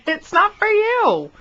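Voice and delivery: laughing refusal. Real, not acted.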